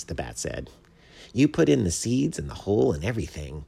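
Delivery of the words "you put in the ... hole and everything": fast, high excited exclamation; excited rush; exclaiming. A narrator's reading. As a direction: blurt it out in delighted amazement. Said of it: "exclaimed the chipmunk".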